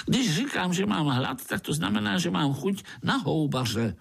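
high, quick grinning mosquito; jolly mosquito grinning at a spider. Acted. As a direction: tease the little spider, fast and high.

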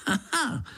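high sarcastic haha; mock laugh. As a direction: scoff at it. Mosquito mocking.

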